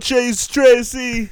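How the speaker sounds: mock Asian accent. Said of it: "that's an Asian accent".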